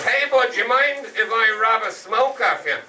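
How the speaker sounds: high-pitched, drawn-out cadging voice; homeless man. Retold or imitated. Homeless man asking the comic for a smoke, high and drawling. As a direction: play a street character begging a smoke. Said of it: "a homeless man came around the corner".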